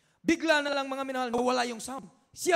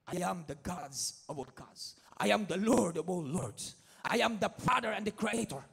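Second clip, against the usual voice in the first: slow, lower divine proclamation; slow solemn voice of God speaking to the pastor; 5 semitones lower, slower than usual. Acted. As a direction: announce yourself as the Lord, slow and weighty. God answers the dying pastor.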